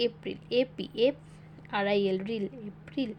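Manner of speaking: letters spelled in chunks, each chunk then sounded out, like "জে এ যা"; spelling syllable by syllable. Shown as a demonstration. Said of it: "এভাবে syllabus অনুযায়ী ভেঙে ভেঙে পড়বে".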